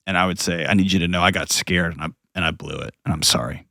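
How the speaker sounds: a father owning up quietly to his daughter; choked up. Real, not acted. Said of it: "I'm gonna get all choked up".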